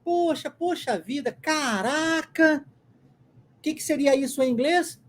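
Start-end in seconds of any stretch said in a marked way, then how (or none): 0.0-2.7 raised pitch, last word stretched long; astonished, drawing out caraca; surprised exclamation. Shown as a demonstration. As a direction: list them as cries of amazement. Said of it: "essas expressões que nós temos".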